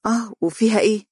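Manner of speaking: high, quick, offhand comeback; spontaneous, unbothered. A narrator's reading. Girl glances at her clothes, spontaneous reply. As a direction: answer innocently, seeing no problem. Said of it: "وقالت بتلقائية".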